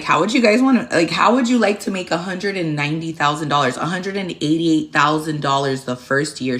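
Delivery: put-on high, loud sales pitch to the kids; mock eager recruiter voice; excited pitch. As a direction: sell it like a dream job. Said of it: "And I'm like".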